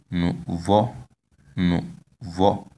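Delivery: nouveau in two separate syllables, rising at the end; nouveau, careful demo, high final o. Shown as a demonstration. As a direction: model nouveau with a lifted last vowel. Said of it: "tone is on the last vowel".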